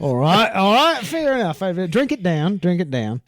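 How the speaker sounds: high, hammed-up Aussie; exaggerated Aussie, falling back at the end; put-on Australian accent. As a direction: cheer them on in mock Australian. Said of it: "You've obviously absorbed this movie quite well".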